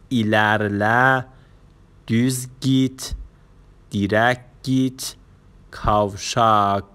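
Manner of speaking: "ایلرله، دوز گیت، دیرک گیت، کاوشاک" slowly, each item set apart; pronunciation review. Shown as a demonstration. Teacher repeating direction words for learners, "ایلرله، دوز گیت، دیرک گیت، کاوشاک" pronounced slowly.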